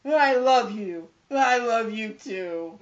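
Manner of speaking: loud, slow, hammed-up affection; mock sappy declaration. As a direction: drag out the love lines mockingly. Mocking a sappy film reconciliation.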